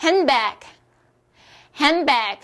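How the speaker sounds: "핸드백" as hen-bag, D left out; dropped D. Shown as a demonstration. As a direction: model "핸드백" for repeating without the D. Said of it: "이렇게 발음을 하실 수". ("핸드백"을 드 없이 헨백으로)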